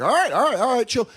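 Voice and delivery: high, placating mom. Retold or imitated. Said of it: "she was like".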